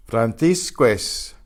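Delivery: Francisco es slow, the o gliding straight into es; linked words. Shown as a demonstration. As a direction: blend Francisco es into one. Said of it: "they do blend together".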